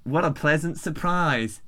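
attempted South African accent; bad South African accent. Reading the translated email aloud, bad South African accent. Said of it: "read this following passage in a South African".

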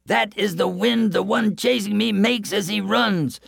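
breathless frightened boaster; scared coward. Acted. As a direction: squeak it out in fright. Coward explains the wind.

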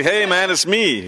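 slow, laughing mock Hoff; a hint of Hasselhoff, slow and amused. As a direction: ham up a cheesy celebrity greeting.

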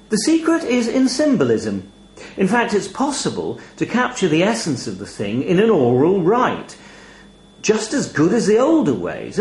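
high, smooth raven; a bird with bedside manner. Acted. Raven explains the rite.

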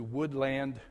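Woodland with a full, stressed "land"; mispronounced Woodland. Retold or imitated. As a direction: say Woodland as two words, wood-LAND. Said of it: "putting the emphasis on the wrong syllable".

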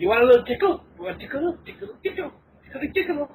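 creepy teasing. Pretend. Creepy tickle taunt.

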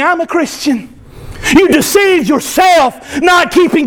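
urgent, rising pulpit warning; hellfire preaching. Real, not acted. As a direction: warn the pews of damnation, building in pitch.

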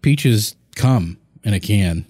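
slow, suggestive drawl on the lyric; suggestive, drawn out. Pretend. Repeating the lyric to his co-host, slow and suggestive. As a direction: drag each word out with a sly innuendo. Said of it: "you just got dirty".

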